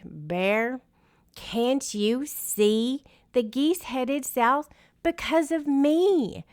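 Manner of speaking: high teasing wind voice. A narrator's reading. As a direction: wind taunting the bear. Wind character voice.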